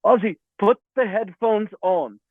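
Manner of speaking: slow, deliberate, lightly put-on English accent; attempted English accent. Engineer telling the singer to resume, attempted English accent. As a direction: instruct patiently in a rough English accent. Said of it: "in an English accent".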